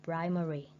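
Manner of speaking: "primary" with PRI strongest, falling away after; first-syllable stress. Shown as a demonstration. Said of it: "put the stress on the first syllable".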